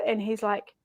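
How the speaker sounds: usual speaking voice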